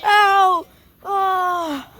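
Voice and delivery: ow of pain; wincing cries; crying out in pain. Real, not acted. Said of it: "That hurt".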